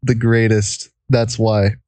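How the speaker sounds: muffled under a blanket; talking muffled under the covers. Real, not acted. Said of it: "recording under a blanket".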